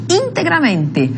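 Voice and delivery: "Integramente" slow, stressed on IN and MEN; high start on "Integramente", second beat on MEN; two stresses. Shown as a demonstration. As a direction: give "Integramente" two accents. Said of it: "na fala nós temos dois acentos".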